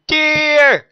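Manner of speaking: high, loud call; shrill call. Acted. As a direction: call out to your prey. Killer calling out.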